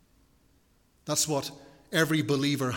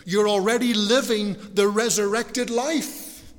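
higher and louder, driving preacher cadence; preaching at full force; 6 semitones higher, 4 dB louder than usual. Acted. Preacher urging the congregation they already live the resurrected life, fervent and higher. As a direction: rise to a fervent climax.

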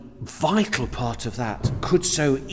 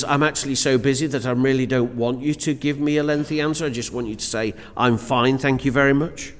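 hidden impatient meaning; faster than usual. Retold or imitated. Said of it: "which is".

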